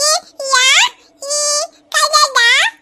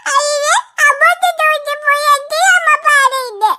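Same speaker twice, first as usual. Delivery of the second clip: acted crying. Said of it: "നീ കരയുന്നല്ലോ".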